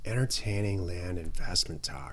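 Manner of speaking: mellow hippie surfer voice. Pretend. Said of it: "Why are you talking like that?".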